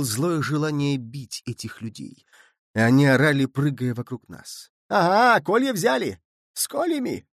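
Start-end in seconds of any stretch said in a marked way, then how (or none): 4.9-7.3 high, climbing mock triumph; jeering cries. A narrator's reading. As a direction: taunt them for taking stakes. Mob jeering at the stakes. (насмешливо, высоко)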